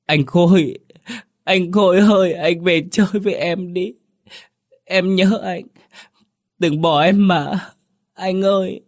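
put-on high, tearful child's pleading cry; a little boy begging his brother back; child sobbing. A narrator's reading. Younger brother crying at his dead brother's portrait. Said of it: "gào khóc đến khản giọng".

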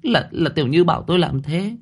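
frightened stammer. A narrator's reading. Startled cousin stammering her defence to the landlady. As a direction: stumble over every word in fright. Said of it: "Nhụy Nhụy giật mình".

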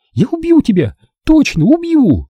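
yelling threat. A narrator's reading. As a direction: yell the threat with all she has. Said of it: "завопила она".

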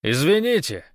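high, loud call; shouted apology. A narrator's reading. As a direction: call sorry across the distance. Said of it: "крикнул он".

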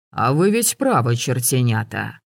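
ordinary delivery, nothing marked

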